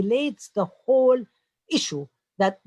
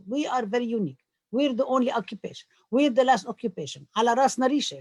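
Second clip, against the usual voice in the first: raised, mock-proud voice for a common boast; mocking quote; 5 semitones higher than usual. Panelist mocking what Palestinians often say, mock-proud. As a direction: lightly send up the claim of being unique. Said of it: "as a lot of Palestinians said".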